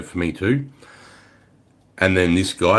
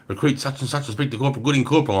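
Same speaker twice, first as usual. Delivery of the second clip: formal recruit report; 5 semitones higher, faster than usual. Retold or imitated. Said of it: "they're like".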